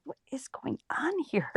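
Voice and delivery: unvoiced, hushed what-is-going-on whisper; whispered disbelief. Newcomer whispering at late New Orleans coworkers, hushed disbelief. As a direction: whisper it like you can't believe your coworkers. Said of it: "I'm like".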